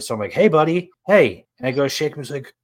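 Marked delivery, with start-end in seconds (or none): 0.3-1.5 raised, questioning wake-up call; calling to someone. Retold or imitated. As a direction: try to rouse a sleeper.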